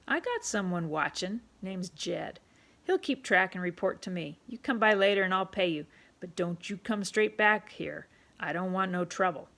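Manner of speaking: put-on loud, bossy barkeep calling the boy in; a pushy tavern keeper ordering a kid about; rough London publican, loud and commanding; gruff pub owner. Pub owner voiced in story.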